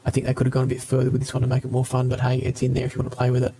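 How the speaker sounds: mild robotic voice changer; lightly robotic morphed voice. Real, not acted. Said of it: "There's a robot one".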